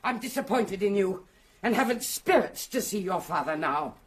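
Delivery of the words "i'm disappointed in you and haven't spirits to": raised, indignant refusal; angry. Acted. Aunt angrily refuses to stop.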